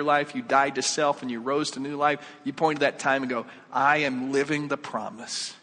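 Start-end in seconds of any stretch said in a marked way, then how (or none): 3.7-5.5 slow, full-voiced affirmation; firm declaration. Believer points back to baptism, firm declaration. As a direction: state it with steady conviction.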